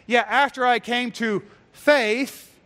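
"faith" drawn out slowly, set off as so-called; mock a false teacher, slowing into "faith"; air-quoted FAITH. Preacher quoting false teachers' claim, air-quoted faith. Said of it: "notice the air quotes".

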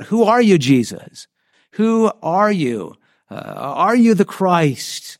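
high-pitched, demanding question, slowing down; demanding high priest. Retold or imitated. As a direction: press him hard for an answer, drawn out. High priest demands Jesus's identity.

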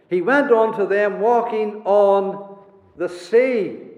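slow, deliberate "walking on the sea"; emphatic stress. Real, not acted. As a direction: space out "walking on the sea" with weight on each word. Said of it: "I emphasize the words of the Holy Spirit".

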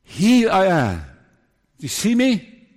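calling out to people, high and slow; God. Acted. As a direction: proclaim it as a divine summons. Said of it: "to say".

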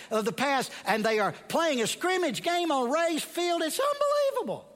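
from eager narration to an astonished high peak; building excitement. A narrator's reading. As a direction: climb in pitch and volume until it bursts.

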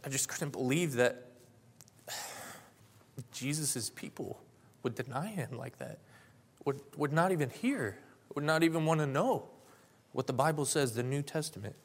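a touch of tearful disbelief; understated, pained confession through held-back tears; retold weeping. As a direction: relive grieving to a friend, pitch lifting on phrases. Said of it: "and I was weeping".

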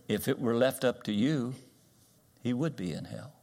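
gently delivered hard truth, acted; kindly. Preacher voices pastor answering grieving lady, kindly. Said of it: "as kindly as he knew how".

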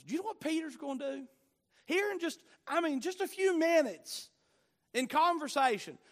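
high, loud, rising preacher excitement; excited preaching. Acted. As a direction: lift the congregation with urgency.

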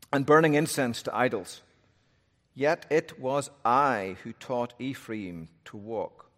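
solemn Bible reading aloud; scripture reading. Acted. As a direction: read the passage with weight.

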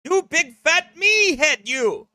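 high-pitched, hammed-up upset; mock crying complaint. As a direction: protest high like a pretend crybaby. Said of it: "I'm crying over".

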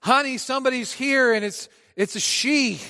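a helpless husband yelling for help; panicked call. Retold or imitated. Preacher acting a flustered husband calling his wife, mock panic. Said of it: "we call out".

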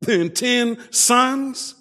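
drawn-out boast about the ten sons; smug husband. Retold or imitated. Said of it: "had the audacity to say".

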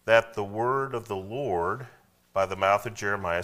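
slow, deliberate scripture reading; slow unison reading. Shown as a demonstration. Pastor leading the congregation in reading aloud, slow and deliberate. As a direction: lead the church through the verse slowly. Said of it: "say it with me".

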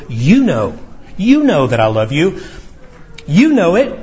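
YOU lifted and leaned on each time; insistent emphasis on "you"; stress on YOU. Acted. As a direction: underline "you" in every repeat. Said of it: "Again, it's, it's emphatic".

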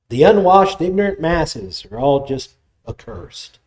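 scorn the common folk; contemptuous elitist. Retold or imitated.

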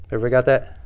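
usual speaking voice

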